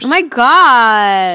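slow, stretched amazement; drawn-out disbelief; amazed. Real, not acted. Amazed at price.

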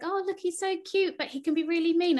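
high, cooing imitation of fans; mock cooing. Host imitates everyone fawning over the cute picture, mock cooing. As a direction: gush as if over something cute. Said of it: "everyone's like".

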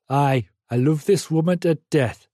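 Geordie coal miner declaring his love; purring Geordie. A narrator's reading. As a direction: purr it in a Geordie accent. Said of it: "purred the Geordie coal miner".

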